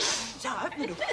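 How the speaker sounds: chuckling through the words; laughing. Acted. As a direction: laugh while telling it. Telling a funny story laughing.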